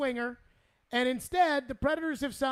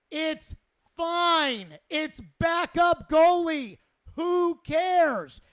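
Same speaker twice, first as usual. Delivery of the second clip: slow, louder dismissive rant; exasperated; 3 semitones higher, 5 dB louder, much slower than usual. Real, not acted. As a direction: drag it out, who cares. Host dismissing backup goalie worries.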